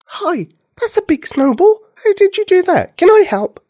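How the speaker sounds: put-on high little girl voice, rushing on one breath; all in one breath. A narrator's reading. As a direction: blurt it all out without stopping for air. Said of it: "without taking a breath".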